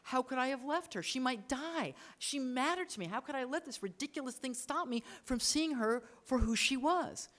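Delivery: acted anguished inner monologue; anguished realization. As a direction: voice his dawning regret, pitch lifted. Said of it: "we see him thinking".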